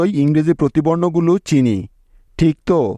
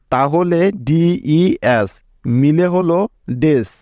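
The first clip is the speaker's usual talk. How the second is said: ডিইএস drawn out very slowly, then ডেস joined; teacher blending ডিইএস into ডেস slowly; slow syllable blending; slower than usual. Shown as a demonstration. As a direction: stretch the letters, then blend them into ডেস. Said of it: "এরকমভাবে একসাথে উচ্চারণ করলাম".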